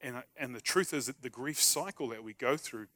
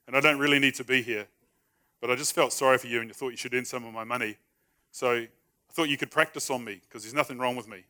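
mock bravado; 7 dB louder than usual. Shown as a demonstration. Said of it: "this is how you do it".

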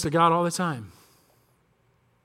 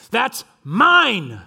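put-on loud, higher possessive kid's shout; child's yell; 5 semitones higher, 6 dB louder than usual. Little son yelling at his brothers over his origami, loud and higher. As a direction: yell it like a boy defending his toy. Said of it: "what does my son yell".

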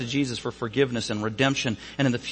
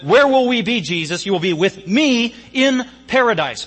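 raised, ringing preacher voice; preaching voice; 7 semitones higher, 6 dB louder than usual. Acted. Preacher voicing Jesus promising the thief, loud and ringing. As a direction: proclaim it high and loud.

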